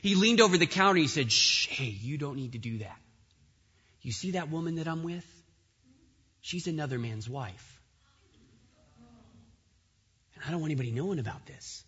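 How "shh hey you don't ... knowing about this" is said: gedämpftes Flüstern. Retold or imitated. Man hushes manager, secret affair.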